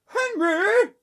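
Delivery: high, loud angry-parent yell. A narrator's reading. Mum calls Henry to order, yelling. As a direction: call out sharply at top voice. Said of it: "yelled Mum".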